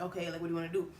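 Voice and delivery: softly imitating an unfazed boyfriend; retold calm. Boyfriend responding to the pregnancy news, calm and soft. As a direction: take it down, quiet and matter-of-fact. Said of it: "He was very calm".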